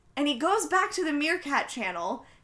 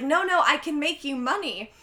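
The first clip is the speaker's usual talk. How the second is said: mild mock loudness; 4 semitones higher, 4 dB louder than usual. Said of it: "loudly trying to calm him down".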